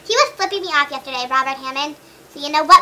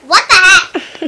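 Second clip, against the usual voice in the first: slow, drawn-out, laughing what the heck; laughing disbelief; 4 semitones higher, 6 dB louder, much slower than usual. Real, not acted. Asking her friend where Liz went, laughing. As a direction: stretch it out through a laugh.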